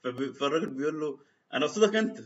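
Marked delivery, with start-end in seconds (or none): 1.5-2.2 raised, higher, louder jab; angry retort. Retold or imitated. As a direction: call him out to his face. Insulter insists he means him.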